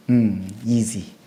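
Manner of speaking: 아주 천천히 여유롭게 내뱉는 이지; 별거 아니라는 듯 느긋하게; 느긋한 여유. Retold or imitated. 엘리야 흉내로 여유. (엘리야가 여유롭게 쉽다고 말하는 흉내)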